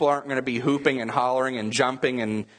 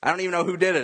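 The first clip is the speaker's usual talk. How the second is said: higher-pitched, mildly excited questions; excited fan; 5 semitones higher, faster than usual. Acted. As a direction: act like a fan who missed the goal. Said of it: "you're all excited".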